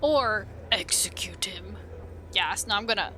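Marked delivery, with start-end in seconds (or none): 0.0-1.8 sinister whisper. Pretend. Player considers the crueller option, whispering slowly. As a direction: whisper it slowly as a dark suggestion.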